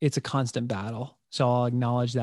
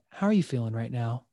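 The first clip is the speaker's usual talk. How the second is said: gentle question; 2 semitones lower than usual. Retold or imitated. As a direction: ease down and ask it kindly. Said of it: "I would go".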